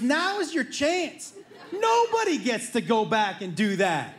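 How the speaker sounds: slow, laughing egging on; excited urging. Retold or imitated. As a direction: egg him on with a laugh. Brother urging.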